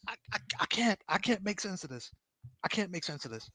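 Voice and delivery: high, soft, stammering defeat; helpless bewilderment. Real, not acted. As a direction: let it fade softly as you give up. Gives up explaining the trade.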